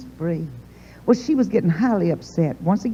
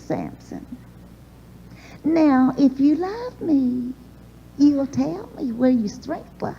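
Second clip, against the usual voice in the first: higher, slow, coaxing Delilah; not nagging, gently; 4 semitones higher, slower than usual. Retold or imitated. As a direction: coax him gently instead of nagging. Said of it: "She didn't nag him or carry on".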